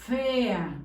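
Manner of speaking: "fea" opening on a very long hissing f; long hissed f. Shown as a demonstration. Teacher dictates with the angry-cat f, "fea" with long hissed f. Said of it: "del gato enojado".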